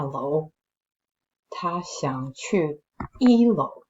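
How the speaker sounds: slow, suspenseful storytelling voice; story narration. A narrator's reading. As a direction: build the creepy tension slowly. Reads a spooky story aloud.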